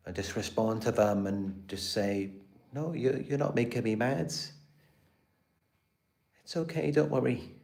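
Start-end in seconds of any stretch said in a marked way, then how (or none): 2.7-7.5 sweet parental voice. Retold or imitated. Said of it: "a sweet parental voice".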